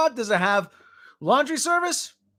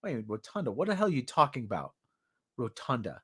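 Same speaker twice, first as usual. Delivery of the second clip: baffled; 6 semitones lower, 8 dB quieter than usual. Retold or imitated. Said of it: "I'm like".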